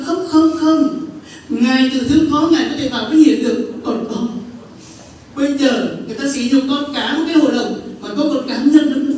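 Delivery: protesting outcry. Retold or imitated. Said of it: "tôi dối Chúa, tôi nói".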